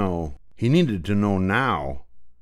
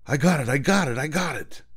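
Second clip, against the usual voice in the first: screamed; 7 semitones higher than usual. Acted. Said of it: "he screamed".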